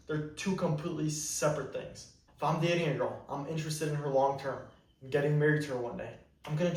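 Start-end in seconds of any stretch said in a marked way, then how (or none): none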